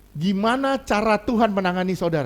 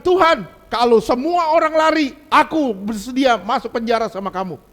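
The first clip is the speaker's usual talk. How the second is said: higher, louder brash vow; bold Peter; 4 semitones higher, 5 dB louder than usual. Retold or imitated. Peter vowing to Jesus, loud brash boast. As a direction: swear loyalty over-confidently. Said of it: "Dia bilang".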